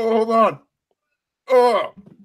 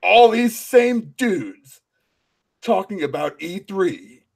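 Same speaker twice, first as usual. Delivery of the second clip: Kratos voice; 3 semitones lower than usual. Pretend. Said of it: "Now you sound like Kratos".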